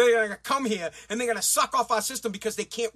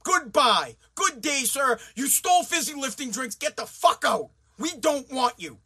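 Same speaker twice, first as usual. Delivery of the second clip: emphatic, indignant dismissal; pissed-off tirade; 2 semitones higher than usual. Pretend. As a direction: send them packing, mock-official and angry. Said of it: "that's how pissed I would be".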